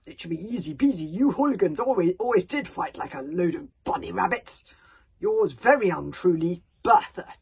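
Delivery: loud, blustering warrior chief; Bertha's letter. Acted. Chief of the bog burglars writing to Stoic, loud and mocking. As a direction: bellow the threats like a fearsome chief. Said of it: "Bertha's letter continued".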